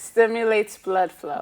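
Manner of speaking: deliberate, emphatic restatement; repeated on request. Real, not acted. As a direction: say it slowly and firmly for the audience. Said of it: "Yes, say that again".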